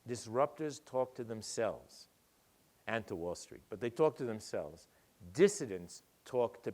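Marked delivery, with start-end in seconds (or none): 0.1-2.1 slow and deliberate. Shown as a demonstration. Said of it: "Listen carefully".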